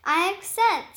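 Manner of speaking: eager, happy acceptance; joyful. Acted. Spider accepts the ride with delight. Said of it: "with joy and delight".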